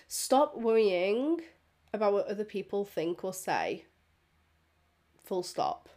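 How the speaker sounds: slow, weighty first take; slow deliberate. Shown as a demonstration. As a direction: lean on each word slowly.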